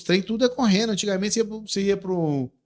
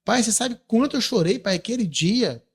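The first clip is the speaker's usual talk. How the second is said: retold raised voice to father; 5 semitones higher, 4 dB louder than usual. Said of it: "fala alto com ele".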